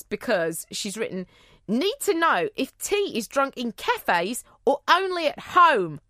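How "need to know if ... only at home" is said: shaky attempt at a New Zealand accent. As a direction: read it with tight mock New Zealand vowels. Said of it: "I'm gonna attempt this New Zealand accent".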